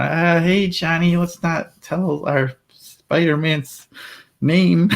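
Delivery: playful heroic voice smoothing over a slip; hammed-up superhero voice. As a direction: hush the kid like Spider-Man would. Hushing kid while in costume.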